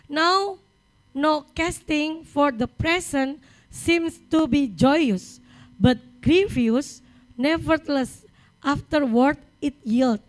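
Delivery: slow, deliberate scripture reading; membaca ayat. Real, not acted. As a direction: read the verse out phrase by phrase, slowly. Reads a verse aloud in English. (membacakan ayat dengan lambat dan tegas)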